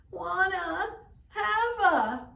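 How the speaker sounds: put-on high, far whiny baby cry; whining baby raven. A narrator's reading. Baby Raven whines to his grandfather. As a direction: wail it like a fussy baby bird.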